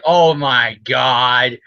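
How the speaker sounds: drawn-out, very slow mock dread; slow acted oh-my-God; retold dismay. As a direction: stretch it out in stunned disbelief. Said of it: "Peter's all like".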